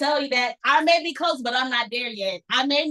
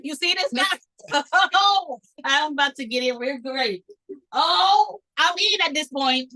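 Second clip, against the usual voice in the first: put-on excited old self; 3 semitones higher, 4 dB louder, slower than usual. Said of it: "And I'll be like".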